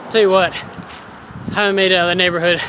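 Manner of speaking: slightly out of breath while walking; winded. Real, not acted. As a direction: puff out the words after a hike. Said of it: "I'm definitely winded".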